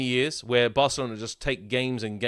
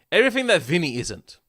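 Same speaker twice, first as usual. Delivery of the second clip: higher and louder, punching "Everything"; emphatic repeat; 5 semitones higher, 4 dB louder than usual. Real, not acted. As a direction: hammer the jab home on the repeat. Repeats the line, then stresses it.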